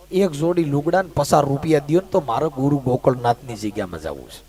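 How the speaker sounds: low, fading wounded plea; hurt bhagat. Retold or imitated. Hurt bhagat pleading to the king, low and soft.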